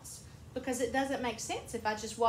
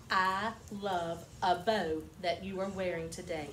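friendly compliment; 5 semitones lower than usual. Shown as a demonstration. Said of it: "if I walk up to Carolyn Grace".

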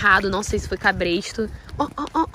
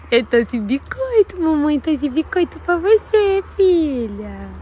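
slow sing-song coaxing; 5 semitones higher, 4 dB louder, slower than usual. Real, not acted. Owner coaxing her mare with biscuits, sweetly.

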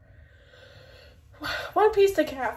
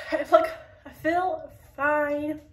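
"fine" slowed down and laughed through, louder; laughing; 3 semitones higher, 5 dB louder, slower than usual. Real, not acted. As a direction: chuckle your way through "I feel fine". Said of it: "update you guys on how I feel".

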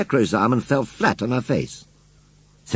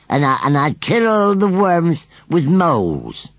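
higher, drawn-out scarecrow voice; boastful scarecrow; 4 semitones higher than usual. Acted. Scarecrow tells children how he would garden, boastful. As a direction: play a scarecrow boasting, slow towards the end.

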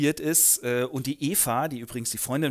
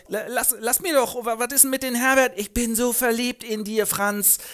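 verliebt; 8 semitones higher, 3 dB louder than usual. Acted. Eva schmachtet Franz an.

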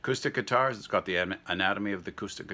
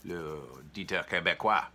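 put-on a light French Canadian accent on the greeting. Vlogger greets viewers as Quebec Dieter, mild French Canadian accent. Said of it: "I haven't done my French Canadian, uh, Dieter".

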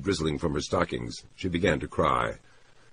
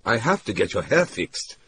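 raised, despairing man's plea; 7 semitones higher, 4 dB louder than usual. Acted. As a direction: voice pitched up in mild despair. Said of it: "he said in a despairing voice".

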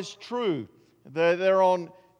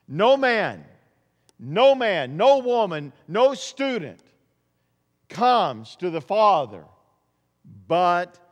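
preaching at full force; 5 dB louder, slower than usual. Acted. Preacher proclaiming Jesus' words to the church, loud and rising. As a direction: ring it out over the congregation. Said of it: "preaching climax, quoting Jesus".

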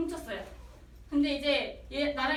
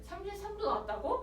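manager surprised; 5 semitones higher, 5 dB quieter than usual. Retold or imitated. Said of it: "했더니".

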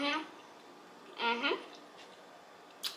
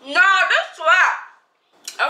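excited; 6 semitones higher, 7 dB louder, much slower than usual. Real, not acted. After tasting food.

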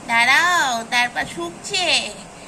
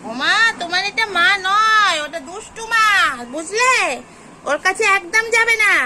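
raised voice telling a kitten to stay away; loud warning to a kitten; 3 semitones higher, 4 dB louder than usual. Real, not acted. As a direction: call the kitten away from the bad mother.

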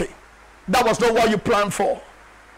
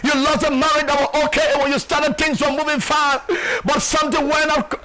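full-force preaching; 3 semitones higher than usual. Acted. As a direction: preach it hard, driving every sentence home.

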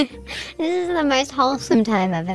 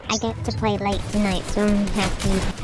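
put-on happy little kid. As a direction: sound thrilled to stay up late. Kid voice in game.

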